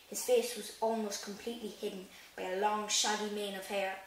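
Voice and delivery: reading the book aloud, evenly; steady storybook narration; story reading. Acted. Reads chapter aloud in vlog.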